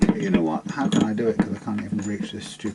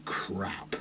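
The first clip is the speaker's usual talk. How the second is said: whispered; 2 semitones lower, 7 dB quieter than usual. Real, not acted. Frustrated guitar setup muttering.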